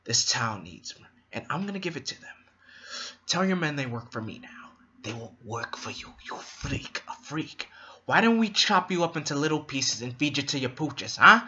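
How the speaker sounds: imitating the Joker threatening the mob; Joker impression. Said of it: "The way he just delivered that line".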